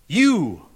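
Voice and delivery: YOU drawn out as one emphatic word. Real, not acted. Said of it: "that's emphatic in the Greek".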